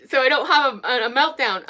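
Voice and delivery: holding off a meltdown, halting; worked up. Real, not acted. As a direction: stammer slightly, trying to keep composure. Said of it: "I'm worked up".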